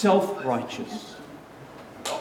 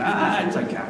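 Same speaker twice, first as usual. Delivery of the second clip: half-hearted Brooklyn accent, tossed off; attempted Brooklyn accent. Shown as a demonstration. Preacher trying God's voice for the congregation, shaky Brooklyn attempt. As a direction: try a Brooklyn accent, not quite landing it. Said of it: "God's got a Brooklyn accent".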